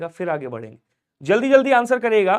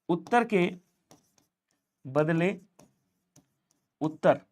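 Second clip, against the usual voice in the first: slow word by word; 2 semitones lower, 4 dB quieter, slower than usual. Shown as a demonstration.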